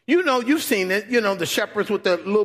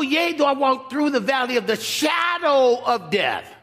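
preaching shout; 6 semitones higher than usual. Acted. Preacher quoting psalm at full force.

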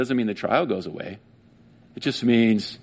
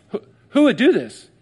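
high, loud anguished plea; distraught cry; 11 semitones higher, 6 dB louder than usual. Acted. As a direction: cry out like a woman who lost everything. Voicing distraught Mary.

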